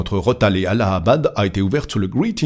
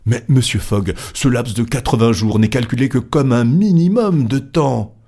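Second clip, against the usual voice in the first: higher, emphatic objection; insistent protest; 4 semitones higher, 4 dB louder than usual. Acted. A club member objects to Fogg's calculation, insistent. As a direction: press the point urgently.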